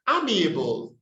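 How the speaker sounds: amiable with a short 'a' as in am; common mispronunciation. Shown as a demonstration. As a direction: say amiable as AM-ee-uh-bul. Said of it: "not amiable".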